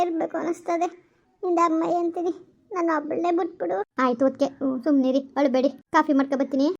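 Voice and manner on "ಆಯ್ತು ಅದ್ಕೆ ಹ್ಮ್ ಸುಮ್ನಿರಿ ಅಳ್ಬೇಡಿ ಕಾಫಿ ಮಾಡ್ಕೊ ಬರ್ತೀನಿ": lower, firm motherly comfort, a bit faster; consoling mother-in-law. Acted. Mother-in-law hushing her crying pregnant daughter-in-law, lower comforting voice. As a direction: talk her out of crying like an older woman.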